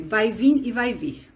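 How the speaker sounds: "vai vir e vai vir" said slowly, word by word; slow, careful demo. Shown as a demonstration. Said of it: "é".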